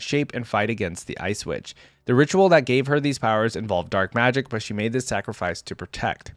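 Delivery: measured dramatic lore reading; story narration. A narrator's reading. Reader telling viewers of Vayne's training, story narration. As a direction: read it out like a fantasy tale. Reads champion lore aloud.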